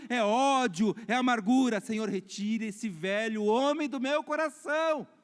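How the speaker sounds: high, loud, impassioned plea to God; fervent prayer. Acted. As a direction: cry out the confession like a preacher praying. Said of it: "a gente começa a falar assim". (oração fervorosa, clamando)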